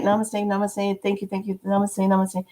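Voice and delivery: quietly bow out with gentle thanks; humble soft thanks. Retold or imitated. She replies humbly to thanks.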